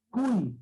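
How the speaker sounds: "cuy" ending in a clear i glide; Y sounded as I. Shown as a demonstration. Teacher showing pupils the letter Y, Y sounded as I. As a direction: say "cuy" with the final Y as a vowel I. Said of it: "está sonando la I".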